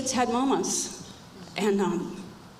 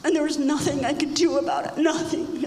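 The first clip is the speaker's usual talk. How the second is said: pained; 4 semitones higher than usual. Real, not acted. Reliving giving daughter up.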